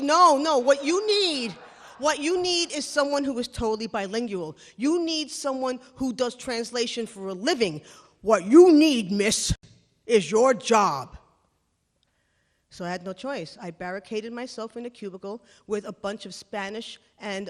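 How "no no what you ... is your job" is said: loud, emphatic put-down, last words slowed; boss snaps back. Retold or imitated. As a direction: lay down the law to the junior. Boss cutting her off.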